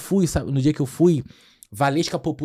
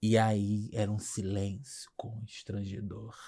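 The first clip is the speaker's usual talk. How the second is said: hushed whisper; 5 semitones lower, 9 dB quieter, much slower than usual. Retold or imitated. Comedian recalls the silent crowd, whispered. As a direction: whisper it like an awkward hush.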